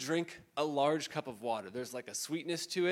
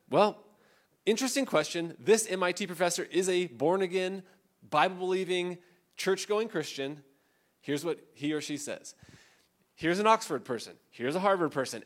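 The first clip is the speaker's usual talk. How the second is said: bright, louder, higher voice; mock enthusiastic; 4 semitones higher, 6 dB louder than usual. Preacher mimicking the author's chapter, eager and loud. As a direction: rattle off the impressive names eagerly.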